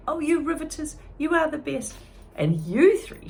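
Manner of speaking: high, moved and teary; old woman thanking friends, choking up; choked up. Acted. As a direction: near tears with gratitude. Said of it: "choked back tears".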